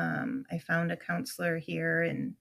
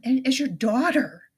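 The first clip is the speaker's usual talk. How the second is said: pleading yell; 6 semitones higher, 7 dB louder than usual. Retold or imitated. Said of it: "I'm screaming at you through the phone".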